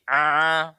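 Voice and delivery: A tightened into an Arabic ain; constricted pharyngeal A; pressed into ain. Shown as a demonstration. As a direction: squeeze "A" from mid-throat. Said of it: "itu lari ke ain nanti".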